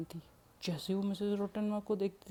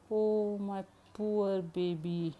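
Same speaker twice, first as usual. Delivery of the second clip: tender pity; 2 semitones higher, much slower than usual. Acted. Grandmother pities locked-up girl.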